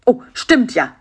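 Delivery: exclaiming. A narrator's reading. Karl-Heinz realises a doctor is the answer, exclaiming. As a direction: exclaim as the idea lands. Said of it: "rief Karl-Heinz".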